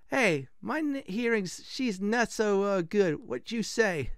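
high, hammed-up Italian blacksmith; bad Italian accent. Hard-of-hearing blacksmith, bad Italian accent. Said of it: "this is gonna be very bad Italian accent".

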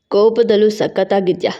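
low, lecherous man's voice; leering admirer. A narrator's reading. Harasser eyeing the angry worker, low and leering. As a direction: voice him low, savouring her anger.

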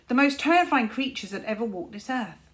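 grave storyteller's warning. Acted. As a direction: build it like a spooky legend. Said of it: "said Caliburn gravely".

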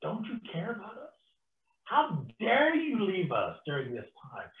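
mildly acted anguished protest; understated hurt, panicky appeal; panicked disciples. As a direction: plead with a touch of panic, starting high. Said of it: "His disciples panic".

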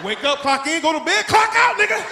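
father barking the house schedule; a hint of a drill-sergeant dad; mock strict father. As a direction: rattle off the rules like a foreman. Father's factory-style house rules.

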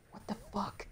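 high, loud disbelieving shout; exasperated shout. Real, not acted. Gamer at the screen, high exasperated shout. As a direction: yell in disbelief. Race going badly.

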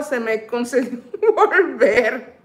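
laughing while reading. Real, not acted. Reading a fan's comment.

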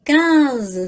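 quinze with a strongly nasal first vowel. Shown as a demonstration. Teacher reminding students to nasalise quinze, nasal. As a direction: let quinze ring through the nose. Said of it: "Bem nasalzinho aí".

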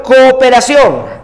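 cooperación said slowly and clearly; cooperación drawn out, each syllable clear; slow dictation. Shown as a demonstration. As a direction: spell out cooperación by ear for the class. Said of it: "aparece la palabra cooperación".

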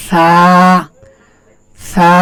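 সা said softly, with the tongue tip showing. Shown as a demonstration. Teacher showing students a soft সা. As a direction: gently model the letter সা. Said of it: "আমি যেভাবে বলতেছি আপনারা সেভাবে বলেন".

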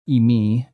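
Imi with the last syllable stressed; final-syllable stress. Shown as a demonstration. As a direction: put the accent on the end of Imi. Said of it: "I am accenting them on their final syllable".

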